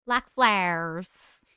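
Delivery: slowed-down, savoring echo; slow repeat. Shown as a demonstration. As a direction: stretch the words out slowly. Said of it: "They look like flowers".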